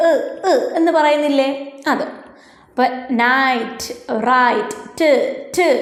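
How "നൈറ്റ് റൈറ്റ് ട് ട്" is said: നൈറ്റ്, റൈറ്റ് drawn out, then ട് alone; demonstrated T ending. Shown as a demonstration. Teacher showing pupils how both words stop, demonstrated T ending. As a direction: sound out the shared ട് that closes നൈറ്റ്, റൈറ്റ്. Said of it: "അങ്ങനെ നിർത്തിയില്ലേ".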